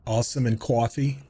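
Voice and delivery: New York "coffee" with a rounded "aw"; "Awesome and coffee" in a New York accent. Shown as a demonstration. Telling chat the New York accent slipped through, a New York accent. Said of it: "Lost all my New York accent except for two words".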